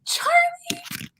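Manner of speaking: name squealed up high with delight; thrilled fangirl cry; excited squeal. Real, not acted. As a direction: gush over the name. Gushing over favourite character.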